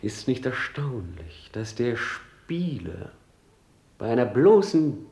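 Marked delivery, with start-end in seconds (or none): 1.5-3.1 slow, hushed whisper. Acted. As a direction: let it slip out in a whisper. Hamlet's monologue about the actor. (langsam geflüstert)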